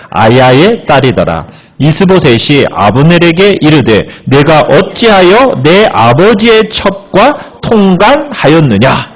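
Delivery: slow, measured reading of the verse; scripture reading. Acted. Preacher reads scripture slowly to the congregation. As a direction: read the Bible passage aloud to the congregation.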